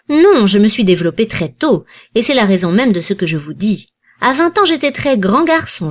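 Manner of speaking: a lightly voiced old man, gently scolding; old banker lecturing. An old banker scolding Lord Warburton, lightly voiced and reproachful. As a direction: lecture the idle young men like a grandfather.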